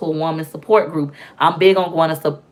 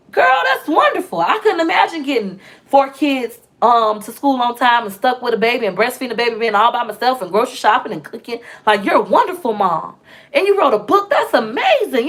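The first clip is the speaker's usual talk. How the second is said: high-pitched imitation of an amazed, admiring woman; gushing praise; 4 semitones higher than usual. Support worker praising a mom of many kids, gushing imitation. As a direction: start very high and gush encouragement, as if retelling her words.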